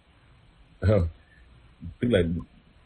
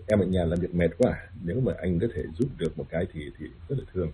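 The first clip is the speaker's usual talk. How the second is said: softer, fading, sincere ask for help; gentle assertive request; 5 dB quieter than usual. Retold or imitated. Wife gently asking husband for help, softer and sincere. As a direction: ask kindly, letting the voice drop softer. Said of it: "sự khác biệt giữa hung hãn và mạnh dạn".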